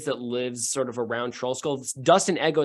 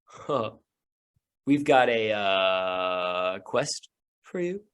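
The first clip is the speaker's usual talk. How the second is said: put-on shop boy voice; 4 semitones lower, slower than usual. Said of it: "and says".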